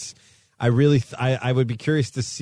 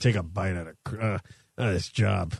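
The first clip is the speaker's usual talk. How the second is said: put-on New Jersey accent, lower pitch, quieter; 5 semitones lower, 5 dB quieter than usual. Co-hosts joking about the crime-dog mascot's tone: New Jersey-ish McGruff voice. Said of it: "He seems actually more New Jersey-ish".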